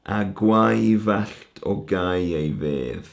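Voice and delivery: slow, stretched Welsh verse line; poem recitation. Shown as a demonstration. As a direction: draw the line out as you recite it. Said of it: "We've got".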